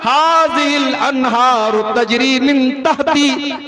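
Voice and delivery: slow, drawn-out Arabic verse; Quranic recitation. Acted. Preacher quoting Pharaoh's words from the Quran, slow recitation. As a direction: recite with long held vowels.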